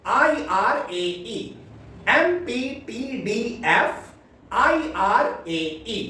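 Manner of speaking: recitation. Shown as a demonstration. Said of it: "फिर से एक बार बोलेंगे".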